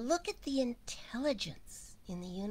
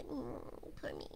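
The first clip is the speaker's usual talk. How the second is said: whiny voice; 4 semitones higher, 6 dB quieter, slower than usual. Retold or imitated. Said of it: "listen for the whine".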